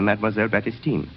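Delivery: usual speaking voice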